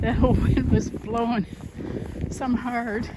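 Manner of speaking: winded from climbing a hill; puffing between words after a climb; out of breath. Real, not acted. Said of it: "Sorry, I'm out of breath".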